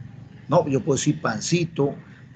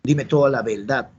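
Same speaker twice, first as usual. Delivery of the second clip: Puerto Rican "verdad" with l for r; Puerto Rican accent. Acted. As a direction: quote it as a Boricua, accent on show. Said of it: "El boricua dijo".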